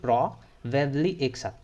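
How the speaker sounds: "probably" blended as one word, drawn out; slow, joined-up "probably" drill; probably said slowly. Shown as a demonstration. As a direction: run "probably" together in one slow breath. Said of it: "pro एक साथ".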